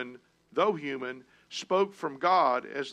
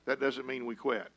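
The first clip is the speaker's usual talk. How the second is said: ordinary talk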